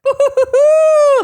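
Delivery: high, loud hooting cheer; a gleeful woo-hoo; excited whoop. Real, not acted. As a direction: whoop with delight. Excited reaction to question.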